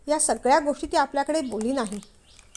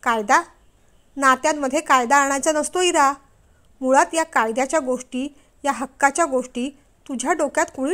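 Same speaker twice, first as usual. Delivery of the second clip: angry lecture. Acted. Husband angrily lectures wife.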